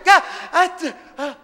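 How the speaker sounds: a light, slow, sheepish student voice with a laugh. Retold or imitated. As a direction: caught out and amazed.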